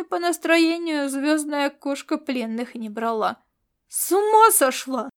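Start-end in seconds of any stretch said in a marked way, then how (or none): 3.9-5.1 loud, high alarmed yell. A narrator's reading. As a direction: shout it as the claws come at you. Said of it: "завопил он".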